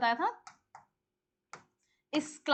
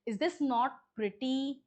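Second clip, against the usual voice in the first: slow question, lifting the tune on "pretty"; negative question intonation; much slower than usual. Shown as a demonstration. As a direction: ask it slowly, ending "pretty" on a questioning rise. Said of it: "बोलने के तरीके से पता चला है कि sentence negative interrogative".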